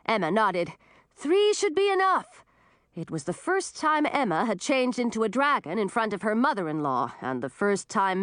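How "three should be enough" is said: high-pitched eager call. A narrator's reading. Helper joining the dragons' rescue, calling out. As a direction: call out agreement over the wind. Yelled agreement amid the rescue.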